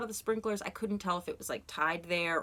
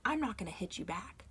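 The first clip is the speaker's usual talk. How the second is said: calm firm; 3 semitones higher, 6 dB quieter than usual. Retold or imitated. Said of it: "I said".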